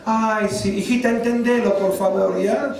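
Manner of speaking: lightly acted placating plea; imagined mother-in-law. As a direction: coax like an indulgent mother-in-law, mock-sympathetic. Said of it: "mi suegra me dice".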